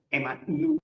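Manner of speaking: Emmanuel split as Ema-NU-El; Hebrew pronunciation. Shown as a demonstration. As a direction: sound out Emmanuel in parts, as in Hebrew. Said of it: "en hebreo".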